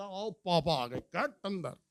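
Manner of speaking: soft, urgent call to run inside; quiet, hurried warning to brothers and sisters; hushed warning. Retold or imitated. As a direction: hiss the kids indoors before dad sees. Kids warn each other, father arrives.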